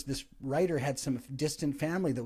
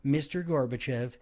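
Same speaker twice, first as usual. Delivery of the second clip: stretched-out, stately presidential line; measured delivery with a long, slow finish; slowly savored line; slower than usual. Retold or imitated. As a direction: let the words land very slowly, as if hearing the speech. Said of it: "instantly went into his brain".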